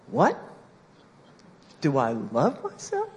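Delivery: acted startled question, voice jumping up on WHAT; taken aback. Crying girl answers the speaker's question, taken aback. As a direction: imitate a girl thrown by the question. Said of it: "tears stopped and she was like".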